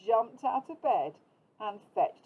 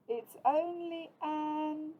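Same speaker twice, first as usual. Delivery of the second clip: Big Mouse sighing; 7 semitones higher, much slower than usual. A narrator's reading. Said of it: "Big Mouse sighed".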